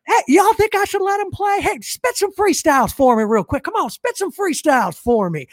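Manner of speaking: high, hollered Southern twang; Southern accent. Retold or imitated. Cardone polling onlookers and demanding freestyles, Southern accent. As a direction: play a Southern showman working the crowd. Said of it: "a little Southern thing".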